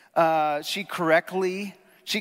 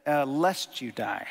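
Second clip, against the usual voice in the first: hesitant quote; 2 semitones lower, slower than usual. Retold or imitated. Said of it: "The women said".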